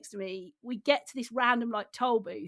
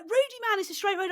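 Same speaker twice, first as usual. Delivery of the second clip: much higher mocking whine of James; 9 semitones higher, faster than usual. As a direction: parody his excuse in a squeaky voice. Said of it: "He's like".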